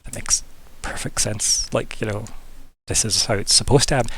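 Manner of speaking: soft whispered agreement among wizards; hushed wizards. Acted. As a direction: mutter it knowingly under your breath. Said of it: "be like".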